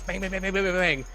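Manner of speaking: high, rapid-fire bangs; imitated pipe banging. Imitating pipes being struck, rapid banging. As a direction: hammer out the word in a fast run. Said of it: "All these pipes".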